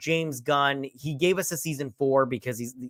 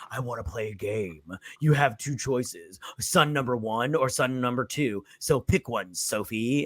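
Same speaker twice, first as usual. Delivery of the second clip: a hint of the Saw puppet's game-master menace; Saw killer voice; 2 semitones lower, 3 dB quieter than usual. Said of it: "Saw style and be all like".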